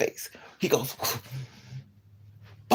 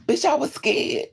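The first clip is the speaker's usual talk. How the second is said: indignant; 8 semitones higher, 4 dB louder than usual. Real, not acted. Indignant at friend.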